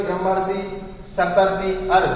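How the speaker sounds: ब्रह्मर्षि and सप्तर्षि with अर clearly sounded; pronunciation demo. Shown as a demonstration. Teacher points out the अर sound to the class. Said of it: "अर इसकी ध्वनि आ रही है".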